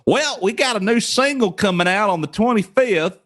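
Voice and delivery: high-pitched white-guy dub voice; overdubbed white guy. Acted. Dubbing himself for a band announcement, high white-guy voice. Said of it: "some white guy".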